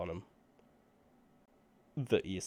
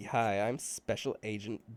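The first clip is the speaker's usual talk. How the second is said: put-on Valley Girl accent. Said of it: "I can totally do, like, a Valley Girl accent".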